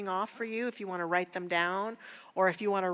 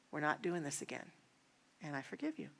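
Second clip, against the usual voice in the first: quiet clear resolve; 3 semitones lower, 8 dB quieter, faster than usual. Retold or imitated. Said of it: "but she was clear".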